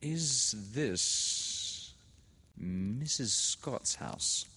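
put-on high, slow, timid girl's voice; nervous young girl asking shyly; Laura, nervous. A narrator's reading. A nervous girl asking a woman at the gate. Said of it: "she said to a woman".

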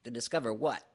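lightly voiced anxious little character; anxious Piglet. A narrator's reading. Piglet asks Pooh about the discovery, mildly anxious. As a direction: ask with a touch of worry. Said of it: "Piglet asked anxiously".

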